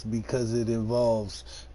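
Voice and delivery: hammed-up good ol' boy twang, stretched out; country redneck voice. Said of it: "In my redneck voice".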